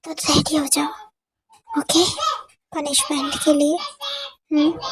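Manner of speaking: teasing whisper. Acted. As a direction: breathe the threat close to her ear. Suga teasing her about the punishment. (फुसफुसाकर छेड़ना)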